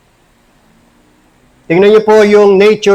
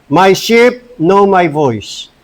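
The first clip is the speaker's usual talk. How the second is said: slow quoted stanza; much slower than usual. Shown as a demonstration. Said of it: "Pakinggan niyo po yung stanza".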